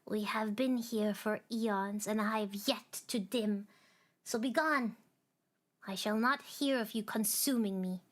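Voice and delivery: a touch of angry defiance; mild defiance. Acted. The little star defying the darkness, mildly angry. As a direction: push back at the darkness with bite. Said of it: "had grown wary and angry".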